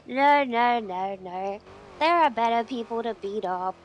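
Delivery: loud. Pretend. Loud protest.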